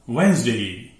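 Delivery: वेंसडे as two syllables, WENZ-day; silent d. Shown as a demonstration. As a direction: drop the first d in वेंसडे. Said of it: "डी silent है". (सही उच्चारण, ड silent, वेंसडे)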